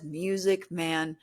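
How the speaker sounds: slow, drawn-out spirit box voice. Retold or imitated. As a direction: stretch it out like a ghostly radio voice. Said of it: "He says".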